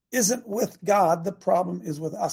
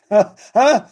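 huh; 3 semitones higher, 11 dB louder than usual. Acted. Mock disbelief at Lazarus claim.

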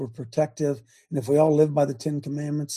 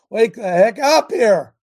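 louder, slow and emphatic wake-up call; urgent exhortation; 4 semitones higher, 8 dB louder, slower than usual. Real, not acted. Preacher louder and slow, urging his audience to wake up. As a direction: hammer each word slowly to rouse them.

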